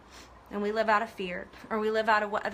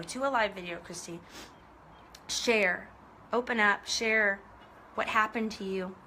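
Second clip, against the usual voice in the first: softer, gentle inner voice of God; gentle, not demanding; 5 semitones lower, 4 dB quieter than usual. Retold or imitated. God gently nudging Christy to share, soft. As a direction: coax her kindly, no pressure. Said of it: "not demanding".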